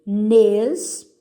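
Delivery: "Inexperiente" as i, nex, pe, ri, en, te, with pauses; separando sílabas. Shown as a demonstration. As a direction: dictate "Inexperiente" one syllable at a time. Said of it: "separe as sílabas dessas palavras". ("Inexperiente" pausado, sílaba por sílaba)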